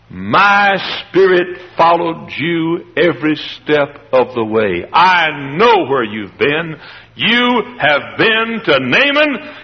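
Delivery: slow, solemn reproof; measured words of a prophet who knows; grave prophet. Acted. Elisha confronting his servant, slow and solemn. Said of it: "And Elisha said".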